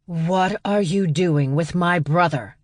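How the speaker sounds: slow, pressing demand. Acted. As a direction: make her answer you. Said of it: "the woman demanded".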